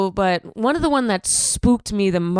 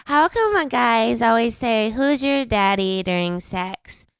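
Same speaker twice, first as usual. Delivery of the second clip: drunk girl impression. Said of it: "That's also a great impression".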